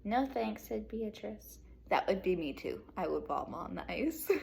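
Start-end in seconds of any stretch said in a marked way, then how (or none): 0.0-1.6 lively read-aloud to second graders; bright classroom storytelling; storybook reading. Acted. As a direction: read it like story time for kids.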